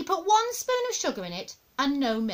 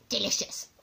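"Delicious" savoured at near-usual pitch; audible savouring of "Delicious"; relishing grandma; 4 dB quieter than usual. Acted. Grandma relishes eating live slugs.

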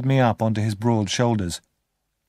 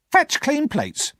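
high, slow, commanding woman's voice; bossy sister's order; much slower than usual. Acted. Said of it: "she ordered".

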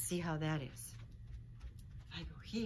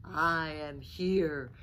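rumbling; 9 dB louder, much slower than usual. Acted. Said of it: "rumbled Dragon".

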